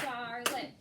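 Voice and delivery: CHARLOTTE drawn into CHAR and LOTTE; clapped syllables. Shown as a demonstration. Teacher confirming a pupil's count of two, clapped syllables. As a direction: split CHARLOTTE into two even beats. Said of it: "and clap it".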